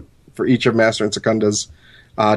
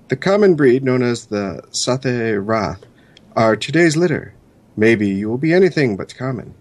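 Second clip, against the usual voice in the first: lightly dramatic reading voice, higher; horoscope reading; 3 semitones higher than usual. Acted. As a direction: read it like a mystic almanac. Reads in-character horoscope.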